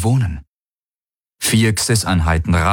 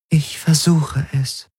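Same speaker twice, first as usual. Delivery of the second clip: higher, otherworldly alien voice; alien entity voice; 7 semitones higher, slower than usual. A narrator's reading. The Helix explains the ships' doubt in a strange voice. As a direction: sound distant and strange, not human.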